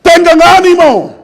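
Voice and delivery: a hint of Jesus, drawn out and emphatic; Jesus speaking. Preacher voicing Jesus's promise to his followers, slow and solemn. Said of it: "Y Él lo dijo".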